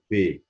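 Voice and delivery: بي as "pé", lips popping the P. Shown as a demonstration. Teacher modelling French P, popped from the lips. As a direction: say بي with a voiceless P, "pé". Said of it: "بنطقها من شفايفي".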